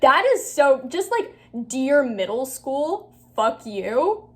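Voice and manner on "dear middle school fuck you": slow, grand and defiant; mock dramatic. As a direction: deliver it like a proclamation. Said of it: "so powerful and so true".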